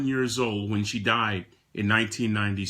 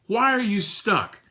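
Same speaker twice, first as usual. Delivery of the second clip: higher, probing question; questioning friend; 8 semitones higher, slower than usual. Retold or imitated. A friend asking Rick in 1996 why he's stuck, probing. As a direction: press him for the reason. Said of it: "If you were to ask me".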